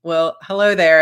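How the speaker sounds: lightly put-on, amateur British accent; a hint of fake British; attempted British accent. Shown as a demonstration. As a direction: try out a tentative British accent. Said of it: "trying to practice his accent".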